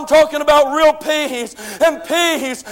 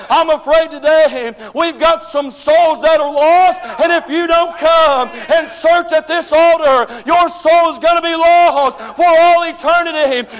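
preaching shout; 2 semitones higher than usual. Real, not acted. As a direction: press the congregation hard toward the altar. Preacher exhorting to the altar.

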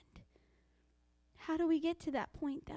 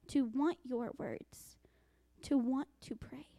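heartfelt prayer. Acted. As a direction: plead with God, dropping to a whisper. Prays aloud to God.

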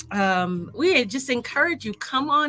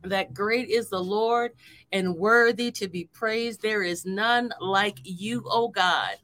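prayer. Acted. Leads an opening prayer.

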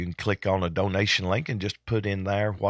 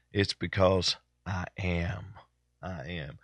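tired, slow and trailing; draggy and slow; 2 semitones lower, 4 dB quieter, slower than usual. Real, not acted. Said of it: "if I sound a little draggy and I'm dragging and moving a little slow".

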